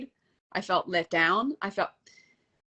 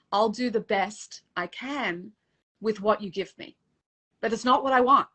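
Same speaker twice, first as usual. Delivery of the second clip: voice breaking; 2 semitones higher than usual. Real, not acted. Repeating her prayer to God, real tears rising. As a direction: fight back real tears as it swells. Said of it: "Still makes me cry".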